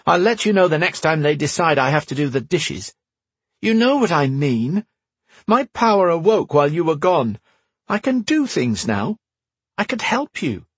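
put-on high pleading boy voice; insistent. A narrator's reading. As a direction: push it, kid insisting. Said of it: "insisted his brother".

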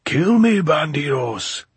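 very high, loud, laughing taunt; gleeful shout. Acted. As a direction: jeer at them with delight. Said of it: "he shouted again happily".

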